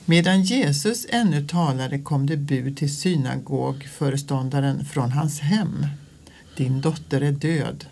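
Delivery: measured liturgical gospel reading; solemn Bible reading with even pacing; scripture reading. Acted. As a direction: read the Gospel to the congregation, unhurried. Reads the gospel text aloud.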